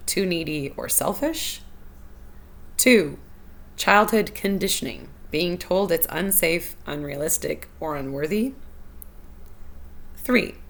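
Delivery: measured list with long pauses between items; slow listing. Real, not acted. Host reads listeners four reasons to relate to, listing slowly. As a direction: read each point out slowly and deliberately. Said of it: "I'm gonna list them slowly".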